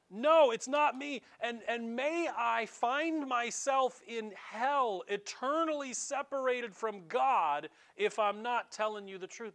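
loud, insistent denial swearing on hell; desperate oath. Acted. Peter swearing to the men that he isn't lying, loud and desperate. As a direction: swear it hard, over-protesting. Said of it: "he literally says to these men".

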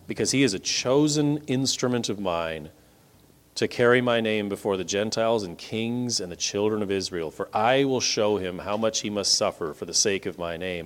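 God answering Ananias in a low calm voice. Acted. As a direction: speak as God, calm and settled. God's reply voiced low.

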